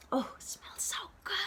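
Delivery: whispered delight at a smell; savoring a smell. Acted. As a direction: breathe it out, savoring.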